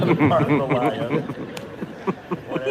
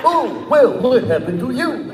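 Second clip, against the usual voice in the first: louder character voice, second try; 7 semitones higher, 5 dB louder than usual. Acted. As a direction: redo it in full voice. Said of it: "I can't do the voice unless I do this".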